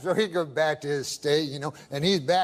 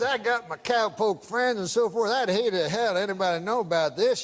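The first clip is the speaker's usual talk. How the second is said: put-on old prospector; 2 semitones higher than usual. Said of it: "I can tell by the accent".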